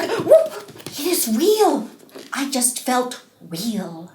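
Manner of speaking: excited Snow White. Acted. Snow White pokes the bear.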